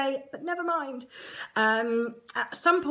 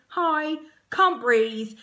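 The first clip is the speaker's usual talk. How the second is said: strained thought; 5 semitones higher, 6 dB louder, much slower than usual. Retold or imitated. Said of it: "And I'm thinking".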